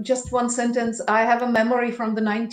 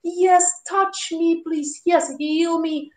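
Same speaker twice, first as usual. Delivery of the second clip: imitating pleading grandmas; 5 semitones higher, slower than usual. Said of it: "all the grandmas on the".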